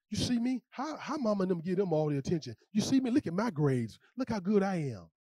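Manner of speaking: mock sibling plea. Overlooked child wanting the parents' attention, lightly voiced. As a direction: beg mama to notice you. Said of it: "we do it in our families".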